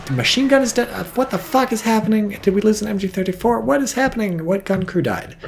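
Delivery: high-pitched flustered questioning; bewildered alarm. Real, not acted. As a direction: fire off baffled questions, pitch way up. Baffled by losing a gun crew.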